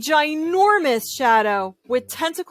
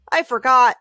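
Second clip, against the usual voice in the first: forgot; 6 dB louder than usual. Acted. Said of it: "said Clark".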